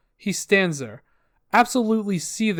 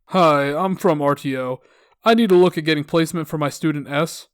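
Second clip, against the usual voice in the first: slightly put-on caller voice; caller role; 3 dB louder than usual. Acting the caller from RTO.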